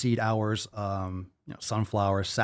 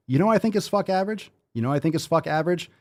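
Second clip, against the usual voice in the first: fast hype; 5 semitones higher, faster than usual. Pretend. Hyping the segment.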